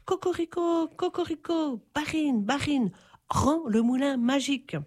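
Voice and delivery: high crowing rooster cry; rooster's crow. Acted. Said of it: "se mit à crier encore plus fort".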